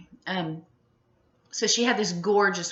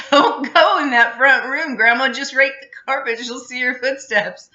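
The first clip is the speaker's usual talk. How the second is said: imitating mom; 7 semitones higher, 11 dB louder than usual. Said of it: "Mom would be like".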